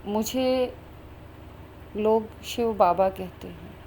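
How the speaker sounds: lightly imitating a sweet, unhurried divine voice; sweet, tender voice. Divine voice answers who it is, sweet and tender. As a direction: say it gently and slowly, with pauses. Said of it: "इतनी मधुर सी, मीठी सी, प्यारी सी".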